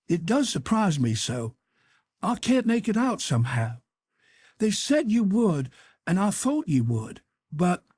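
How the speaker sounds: a boy playing hurt surprise; put-on confusion; mock-bewildered Tom. A narrator's reading.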